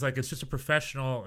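ordinary talk

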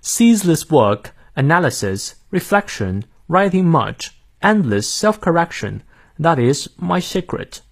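careful British accent, phrase by phrase; British English. Shown as a demonstration. Teacher reads the quote through for learners, British accent. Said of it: "再来一遍".

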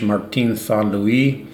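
put-on slow, lightly French-accented name; a hammed-up, clumsy French accent on the name; bad French accent. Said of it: "that was a pretty bad French accent".

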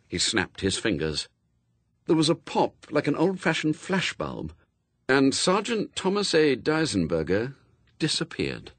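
usual speaking voice

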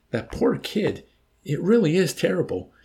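high, pained lament; grieving. A narrator's reading. Milo mourning the kid to Yossarian, grieving. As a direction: pity the poor boy with feeling. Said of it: "Milo grieved".

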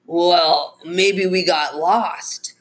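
slow, drawn-out excuse, lightly voiced; a hint of a shifty driver, dragging the words; evasive driver. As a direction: stall a little as a cornered suspect. Cornered driver making an excuse.

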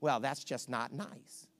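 low, soft and slow pout; mock hurt whine. Offended congregant complaining to pastor, soft slow pout.

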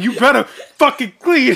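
slow, loud imitation of a shouting dad; retold angry shout. Daughter retells dad ordering a room cleaned, laughing shout. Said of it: "started shouting some shit".

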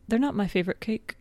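put-on half-hearted British contestant accent; bad British accent. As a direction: quote it in a poor British accent. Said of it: "That was a bad accent".

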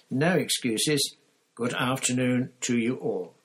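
put-on loud, firm old headmaster giving orders; Dumbledore firm. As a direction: lay down the law kindly but firmly. Dumbledore commanding firmly.

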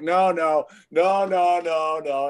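loud, insistent producer objecting; emphatic refusal. Retold or imitated. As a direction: cut the actor off with repeated protest. Producer rejecting the actor's read.

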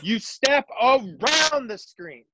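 walk them through it like a clinic; coaching demo. Shown as a demonstration. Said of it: "show the Twitter world how to".

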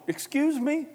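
high, shouted mock indignation; incredulous outburst. Sinking Peter answering Jesus, incredulous shouting. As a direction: build to a loud, disbelieving yell.

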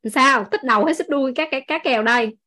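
lightly teasing question; playful teasing. Retold or imitated. Trâm jokes with a partner over fish head or tail, playfully teasing. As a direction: ask it as a running joke. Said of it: "Trâm hay hỏi đùa đùa vậy".

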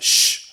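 hushing shh. Retold or imitated. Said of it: "God said".

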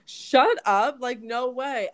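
high excited no way; excited disbelief. Retold or imitated. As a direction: gush like you can't believe it. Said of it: "I'm like".

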